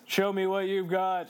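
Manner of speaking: prompting line in put-on Australian; Australian accent demo. Shown as a demonstration. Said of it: "Um, Australian?".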